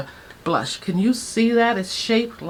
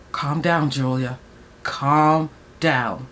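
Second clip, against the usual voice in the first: calming herself; 5 semitones lower, slower than usual. Real, not acted. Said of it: "I'm feeling it".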